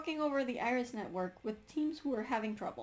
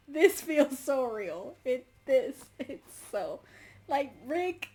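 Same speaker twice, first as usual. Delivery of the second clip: exasperated excitement; 3 semitones higher, 6 dB louder, slower than usual. Real, not acted. Exasperated relatable rant.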